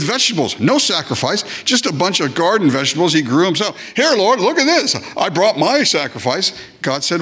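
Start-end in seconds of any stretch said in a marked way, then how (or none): 3.9-6.5 much higher, proud offering; voicing Cain. Cain offers garden vegetables to the Lord, higher proud mock voice. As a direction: show it off like a proud kid.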